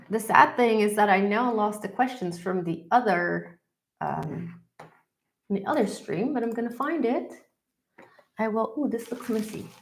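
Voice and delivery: stuffy nose from a cold; nasal, blocked-nose voice. Real, not acted. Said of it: "I apologize for my nasal sounding, um, voice".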